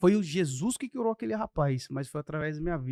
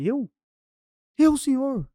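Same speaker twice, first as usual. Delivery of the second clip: high, loud, astonished "me?"; as if caught off guard in church; surprised and raised; startled disbelief; 8 semitones higher, 6 dB louder, slower than usual. Retold or imitated. Startled, pointing at himself.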